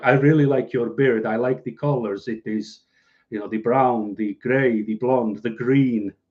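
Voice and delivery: put-on Russian-sounding accent. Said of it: "I don't know why it sounds Russian".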